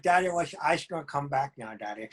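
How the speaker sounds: a hint of a dog asking for her daddy; the pet dog Alice pleading with her owner, mildly voiced; Alice's dog voice. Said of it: "You have to do the voice".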